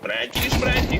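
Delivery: playful high call. Real, not acted. Calling teammate playfully.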